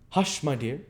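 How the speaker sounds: put-on high, hushing old villain; the Jew's voice. A narrator's reading. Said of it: "he thought he heard the Jew say".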